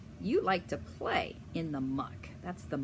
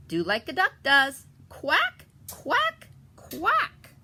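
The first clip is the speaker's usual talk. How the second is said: loud, higher bossy mother duck; Mama Duck; 6 semitones higher, 6 dB louder than usual. Acted. Mama Duck instructing the fox and ducklings, loud higher voice. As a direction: drill them like a mother duck. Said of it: "So Mama says".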